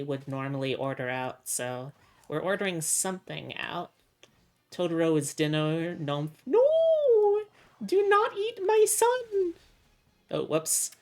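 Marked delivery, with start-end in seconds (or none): 6.0-9.5 panicked shout. Acted. Game creature about to be eaten.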